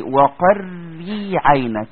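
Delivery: وقري عينك drawn out very slowly with a thin ر; slow tajweed demo of a light ر; light Raa. Shown as a demonstration. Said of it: "تقول ايه؟".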